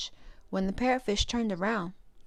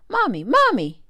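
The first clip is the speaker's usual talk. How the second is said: put-on high, louder child's call; 6 semitones higher, 9 dB louder than usual. A narrator's reading. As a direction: call out eagerly to mom. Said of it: "he called out".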